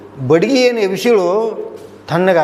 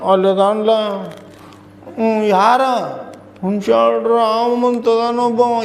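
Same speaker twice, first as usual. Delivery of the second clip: imitating a crying girl; 3 semitones higher, much slower than usual. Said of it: "ಅಳಾಕತ್ತು".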